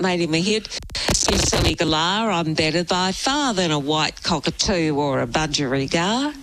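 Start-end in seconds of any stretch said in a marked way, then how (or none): 1.3-6.3 lower, lightly sung-spoken Aussie impression; a lightly put-on folk singer's voice. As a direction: do the singer's bit, low and easy. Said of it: "you impersonated a singer".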